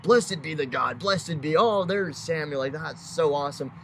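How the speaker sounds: lightly voiced gushing churchgoer; fake religious talk. Saul gushes piously on seeing Samuel, mock churchy. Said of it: "talk like that sometimes".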